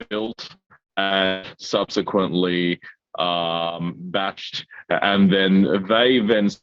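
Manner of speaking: audio cutting in and out; choppy connection breaking up; call dropping out. Real, not acted. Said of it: "I think you are cutting up".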